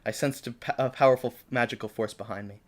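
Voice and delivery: measured fan-fiction reading; story narration. Acted. Reading own fan fiction to co-host, story narration. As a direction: read it out like an earnest story.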